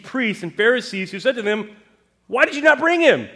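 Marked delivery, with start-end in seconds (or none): 2.3-3.3 loud, high, demanding why; angry demand. Acted. Pharisees rebuking officers, loud angry demand.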